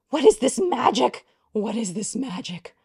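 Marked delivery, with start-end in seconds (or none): 0.1-1.2 high, loud disbelieving question; real astonished exclaim. Real, not acted. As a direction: shout it in wonder. First take loud.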